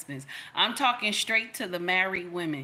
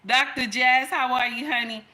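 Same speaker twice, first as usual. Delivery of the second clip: higher, louder, sugary act of innocence; mock sweet-talking wife; 4 semitones higher, 5 dB louder than usual. Wife sweet-talking husband to dodge a lecture, mock-innocent. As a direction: play dumb sweetly to dodge the scolding. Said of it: "And I'm like".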